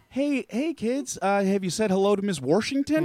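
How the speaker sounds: a grandfather greeting the kids, hammed up; imitating grandfather. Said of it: "my grandfather pronouncing".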